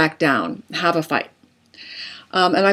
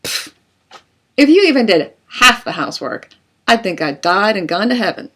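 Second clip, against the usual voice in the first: scoffing, a bit louder comeback; defensive retort; 3 semitones higher, 4 dB louder than usual. Acted. Spouse mocked over dishes, scoffing louder retort. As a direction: scoff and snap it back at the spouse. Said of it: "A defensive response would be".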